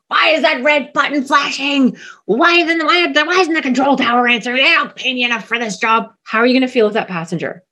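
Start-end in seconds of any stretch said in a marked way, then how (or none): 0.1-6.1 high, strained mock scream; hammed-up frantic rant without much extra volume; panicked captain yelling. Captain losing it in the open cockpit, panicked yelling. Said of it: "the captain's there screaming and yelling".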